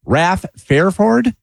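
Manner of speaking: measured newscast delivery; news read. Acted. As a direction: read it as a radio news bulletin. Reads the news bulletin.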